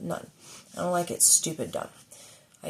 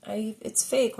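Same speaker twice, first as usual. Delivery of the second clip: mock giggle; 7 semitones higher, slower than usual. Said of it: "you could be like".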